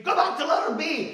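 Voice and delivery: high, loud mock teacher yell; imitating a scream. The choir director yelling at students to keep going. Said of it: "and he'd scream".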